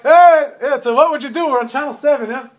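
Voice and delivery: spring the surprise on him; excited reveal. Retold or imitated. Reporters revealing the hidden camera to the man, excitedly.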